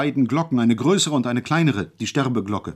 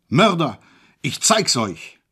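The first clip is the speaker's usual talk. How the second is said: higher, louder raging howl; bawling; 5 semitones higher, 5 dB louder, slower than usual. A narrator's reading. Hejula alone in isolation, bawling in rage. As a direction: bawl it at the locked door. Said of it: "gröhlte".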